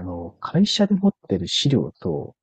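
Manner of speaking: slow, drawn-out careful delivery; very slow speech. Shown as a demonstration. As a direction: speak each phrase deliberately slowly. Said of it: "ゆっくり話しながら終わりますか". (ゆっくり話す)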